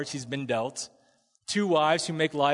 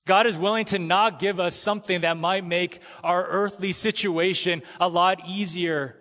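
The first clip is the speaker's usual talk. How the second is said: preaching louder; 4 semitones higher, 5 dB louder than usual. Shown as a demonstration. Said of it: "building repeated point".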